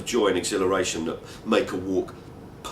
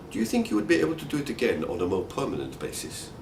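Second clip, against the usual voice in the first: dry friend; 5 semitones higher, faster than usual. Retold or imitated. Friend Fadi's reply quoted.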